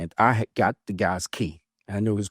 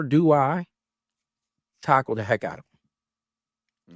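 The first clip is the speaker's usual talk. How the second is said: slow dramatic question; 3 semitones higher, slower than usual. Retold or imitated. Dramatic build-up to his choice.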